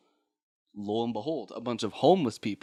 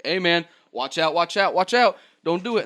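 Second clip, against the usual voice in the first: mock warning shout; 6 semitones higher, 5 dB louder than usual. Cops warning a crawling man.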